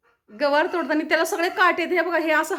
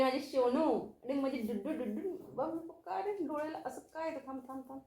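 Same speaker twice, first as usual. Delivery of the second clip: soft cooing to pets; 12 dB quieter than usual. Real, not acted.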